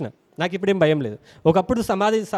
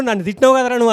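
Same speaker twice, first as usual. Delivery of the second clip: louder, higher accusing bully; angry accusation; 4 semitones higher, 6 dB louder, faster than usual. Retold or imitated. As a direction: confront him like a street tough. (కోపంగా నిందించడం)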